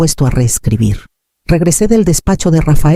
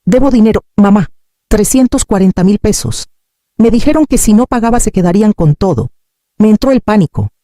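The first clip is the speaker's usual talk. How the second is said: breaking down; 6 semitones higher than usual. Acted. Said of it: "Luego Gabriel se quebró".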